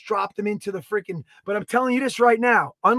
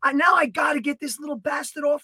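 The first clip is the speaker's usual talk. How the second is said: higher, strained disbelief at the stuck mouse; retelling his frustration to Danny, higher and strained; exasperated outburst; 4 semitones higher than usual. Retold or imitated. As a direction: vent at the glue trap, pitched up.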